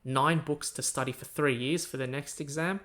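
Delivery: lightly acted scoff, understated; mock scoffing. Host voicing listeners who heard the content, mildly scoffing. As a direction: imitate a dismissive listener, only mildly. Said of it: "are now scoffing, going".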